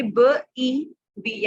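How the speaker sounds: ब ई बी, stretched very slowly; slow blending. Shown as a demonstration. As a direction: hold ई long, then say बी. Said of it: "उसको हमने ई पढ़ना है". (धीरे से ई खींचना)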